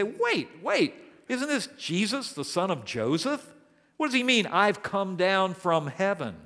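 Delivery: high, incredulous grumbling townsfolk; grumbling crowd. Retold or imitated. Preacher voicing the grumbling crowd, high incredulous protest.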